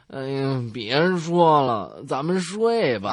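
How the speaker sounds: slow, half-asleep murmur; sleepily mumbled, barely awake; drowsy mumble. Retold or imitated. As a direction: drag the words out like someone talking in his sleep. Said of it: "迷迷糊糊地说".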